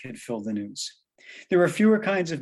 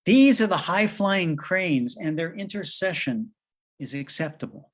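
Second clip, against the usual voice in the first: angel voice. Acted. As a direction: deliver it like a heavenly message. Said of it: "speaking once more in his old angel accent".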